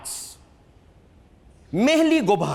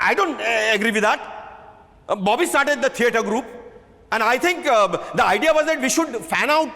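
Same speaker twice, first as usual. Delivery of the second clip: blurted out; 3 semitones higher, faster than usual. Acted. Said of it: "stood up and blurted out".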